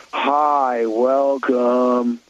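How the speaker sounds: flat, unmotivated desk greeting; bored Gen Z greeter. Shown as a demonstration. Host mimics a bored Gen Z hotel clerk greeting guests. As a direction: drag out a disinterested welcome. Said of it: "I'll give you the tone".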